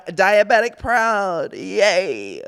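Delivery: drawn-out, slow mock cheer; half-hearted parody of proud kids; mock pride. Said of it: "they're all like".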